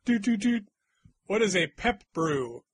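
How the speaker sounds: usual speaking voice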